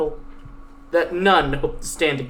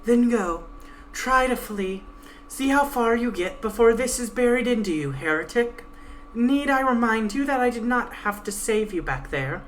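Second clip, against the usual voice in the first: lightly voiced stern guide, pitched a bit higher; 7 semitones higher than usual. Guide threatening the Pegasus at knifepoint, lightly voiced stern menace. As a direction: threaten coldly as the blade-holding guide.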